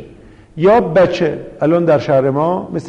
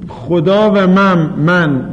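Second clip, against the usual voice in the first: slow example phrase; much slower than usual. Shown as a demonstration. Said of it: "درست مثل این که بگید".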